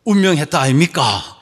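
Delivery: light Gyeongsang accent imitation; Gyeongsang dialect. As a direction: quote it with a touch of Gyeongsang lilt. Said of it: "경상도 사람들은".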